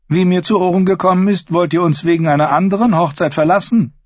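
high, cold, haughty queen; evil queen. Acted. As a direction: sneer down at him as queen. Cersei voiced in reading.

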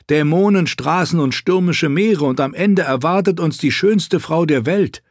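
put-on a young prince listing his dead; bitter prince. Quentin's bitter speech. (höher, bitter klagender Prinz)

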